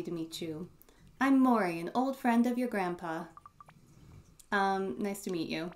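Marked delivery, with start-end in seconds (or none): 1.2-3.2 put-on higher, brighter kindly old lady; a friendly elderly neighbour greeting; kindly old woman. Voices Mori.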